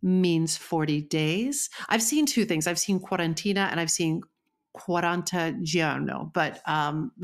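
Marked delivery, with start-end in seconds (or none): 4.8-6.3 slow put-on Italian accent. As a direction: roll it like a hammy Italian. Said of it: "please enjoy my bullshit Italian accent".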